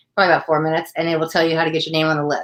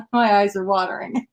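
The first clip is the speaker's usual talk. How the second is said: teary; 3 semitones higher than usual. Real, not acted. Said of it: "don't make me cry".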